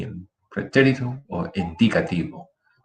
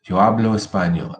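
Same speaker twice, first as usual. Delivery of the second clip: hablo with its first syllable stressed. Shown as a demonstration. Teacher repeating present against past, first-syllable stress on hablo. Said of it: "That's the difference".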